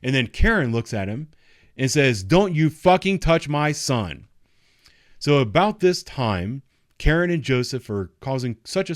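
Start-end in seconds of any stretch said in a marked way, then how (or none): 2.2-4.3 higher, louder, slow mock yell; angry yell. Mother shouting at the deputy, slow angry yell. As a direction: warn him off, loud and slow.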